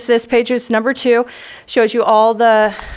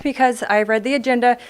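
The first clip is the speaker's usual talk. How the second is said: catching breath between phrases. Real, not acted. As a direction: still winded, short breaths. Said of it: "I'm still catching my breath".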